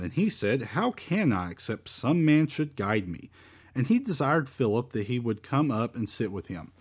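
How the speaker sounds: measured Bible reading, lilting phrases; scripture reading. Acted. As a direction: read the verse aloud to a congregation. Reads scripture aloud.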